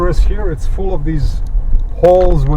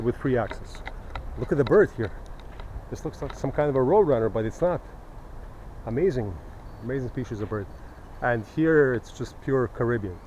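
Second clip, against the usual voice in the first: far off; 3 semitones lower, 16 dB quieter than usual. Real, not acted. Recorded far off after parking.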